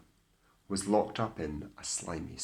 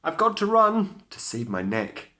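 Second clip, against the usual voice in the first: high, loud alarmed shout; 13 semitones higher, 6 dB louder than usual. A narrator's reading. Cindy shouts as midnight strikes. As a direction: shout it while running off. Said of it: "She shouted".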